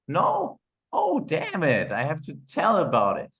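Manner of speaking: high, hammed-up oh no; mock dismay. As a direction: fake shock at the answer. Acted customer call, mock dismay.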